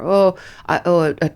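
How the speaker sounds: usual speaking voice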